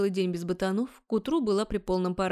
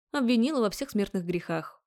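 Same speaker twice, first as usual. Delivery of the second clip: ordinary delivery, nothing marked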